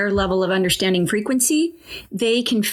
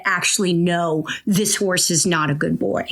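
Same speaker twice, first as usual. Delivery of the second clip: scowling retort; 4 semitones lower than usual. Retold or imitated. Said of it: "with a scowl said".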